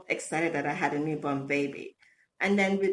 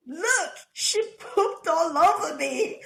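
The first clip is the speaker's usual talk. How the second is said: mock panicked husband; 9 semitones higher, 4 dB louder, slower than usual. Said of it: "But he was petrified".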